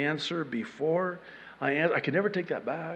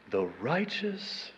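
pious murmur; 5 semitones lower, 11 dB quieter than usual. Acted. Reader who counts himself righteous, hushed mock piety. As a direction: savor it quietly, as if praised.

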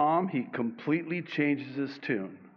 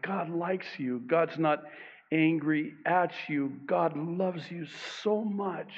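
tender reassurance; 3 semitones higher than usual. Real, not acted. Preacher reassuring listeners.

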